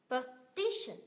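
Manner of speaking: "Petition" broken up, weight on TI; stress on second syllable. Shown as a demonstration. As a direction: lean on the middle of "Petition". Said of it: "Nhấn tiếp thứ hai này".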